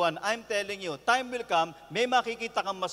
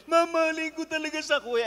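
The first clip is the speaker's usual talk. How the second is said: lightly voiced, higher pleading young man; lovesick young man; 7 semitones higher than usual. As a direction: plead like a heartbroken younger brother. (bahagyang mataas, nagmamakaawang binata)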